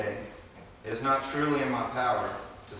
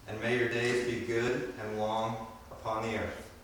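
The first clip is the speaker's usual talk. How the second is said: reciting a blessing. Acted. Reciting Apache benediction.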